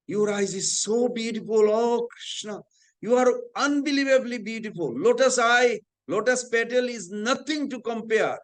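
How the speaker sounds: high-pitched, rapturous praise; retold devotee's exalted wonder; acted adoration. Devotee praises Krishna in story.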